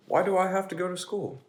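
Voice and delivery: a pigeon who doesn't want to go; whiny pigeon. Acted.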